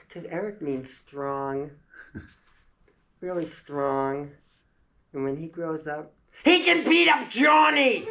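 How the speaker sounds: put-on high slow kid voice rising to a loud yell; little girl building to a shout. Small girl explaining to mother, high voice ending in a shout. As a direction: start sweet, end yelling.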